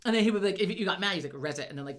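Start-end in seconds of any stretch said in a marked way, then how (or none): 1.3-1.7 "Resit" broken off before the last syllable; low "Resit", stopped midway; word cut short. Retold or imitated. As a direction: imitate a boy catching himself on "Resit". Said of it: "he, like, catch himself".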